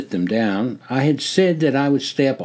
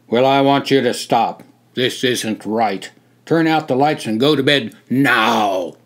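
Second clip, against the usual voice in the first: stern order; 4 dB louder than usual. Acted. Officer giving orders.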